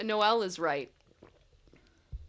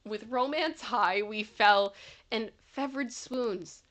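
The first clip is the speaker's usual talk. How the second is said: poem reading; 2 semitones higher than usual. Acted. Reads a poem aloud.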